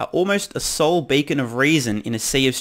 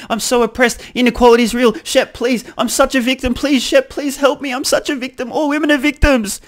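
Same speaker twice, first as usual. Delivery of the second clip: mocking whine that climbs much higher and louder as it goes; mock victim whine; 6 semitones higher, 4 dB louder than usual. Vlogger mocks an imagined self-pitying interview answer, building whine. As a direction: start as a mild whiny complaint, then ham it up into a high pleading wail. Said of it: "here's the answer they were hoping for".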